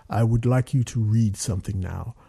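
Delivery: lightly voiced formal director; a hint of a deep-voiced director; measured request, lightly imitating an authority; booming director voice. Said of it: "it's like James Earl Jonesy".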